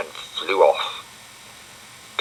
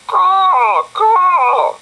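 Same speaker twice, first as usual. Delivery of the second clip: very high loud crow call; loud high crow cry; crow caw; 9 dB louder than usual. Acted. Crow calls louder, higher.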